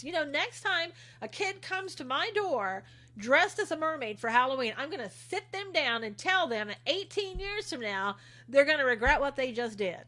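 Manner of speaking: mock-earnest warning with lifted, swinging pitch; sarcastic. Host mocking costume outrage to livestream viewers, sarcastic. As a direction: put on exaggerated concern, clearly tongue-in-cheek. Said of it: "You know I'm being sarcastic".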